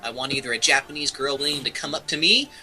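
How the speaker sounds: put-on weeaboo reading with lifted pitch. Reading a listener's plea for a Japanese girlfriend, weeaboo voice. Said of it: "Should I put on my weeaboo voice".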